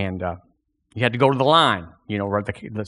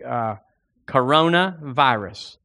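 fervent prayer; 3 semitones higher than usual. Acted. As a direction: pour it out to the Lord before the congregation. Leads congregation in prayer.

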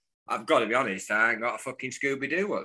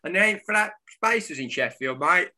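mock club boss; 3 semitones higher than usual. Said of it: "He wasn't like that at all".

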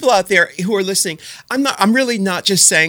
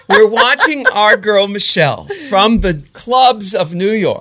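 talking through laughter; laughing; 3 semitones higher, 4 dB louder than usual. Real, not acted. Laughing with pride at her friend on stage. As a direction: laugh the words out warmly.

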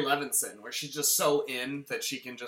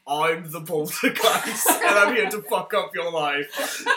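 slow, laughing spooky spirit voice; hammed-up possessed-arm spirit, slow; mock poltergeist; 4 dB louder, slower than usual. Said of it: "poltergeist in his arm".

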